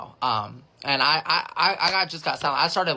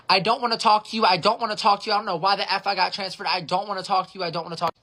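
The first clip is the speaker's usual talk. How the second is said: squealing caller; 4 semitones higher, faster than usual. Retold or imitated. Transferred caller refusing to talk to the agent, shrieking mock squeal. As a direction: squeal it like a furious older caller. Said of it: "squealing bloody murder".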